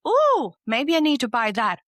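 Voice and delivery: high, eager voice of a shopping craving; tempted inner voice. Retold or imitated. My mind tempting me to shop, high and eager. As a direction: let the mind swoon over a shiny buy. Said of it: "my mind's like".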